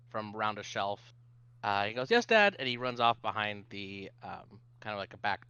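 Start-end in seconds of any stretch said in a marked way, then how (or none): 2.1-2.6 put-on high, loud child's reply; eager little kid. Little kid answers dad before running off, high child voice. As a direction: pipe up like an obedient little kid. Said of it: "a little brown-haired kid run up".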